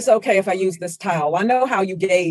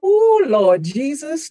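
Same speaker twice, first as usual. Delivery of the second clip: dread; 5 semitones higher, slower than usual. Acted. Dreading what she will find.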